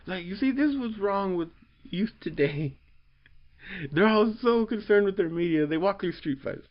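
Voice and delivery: lampoon a cranky elder; mock old grump.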